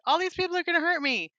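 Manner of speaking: high, fast whiny complaint; a hammed-up whiny Cain; mock whining. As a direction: whine it like a scared kid. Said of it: "he's like".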